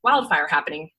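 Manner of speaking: raspy, smoke-worn voice; smoker's rasp. Real, not acted. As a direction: talk through a smoky rasp. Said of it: "I sound like I've been smoking cigarettes".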